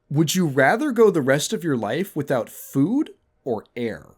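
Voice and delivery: a put-on pondering voice; quoting his own line. His Tinder opener quoted, mock-serious. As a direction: pose it like a big riddle. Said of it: "And I would say".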